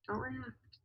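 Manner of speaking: hushed second take of the advice; quiet repeat. Shown as a demonstration. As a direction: drop it right down, like a calming reminder.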